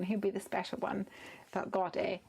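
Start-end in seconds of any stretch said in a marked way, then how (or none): 1.5-2.2 dramatic whisper. Acted. Mock-dramatic aside.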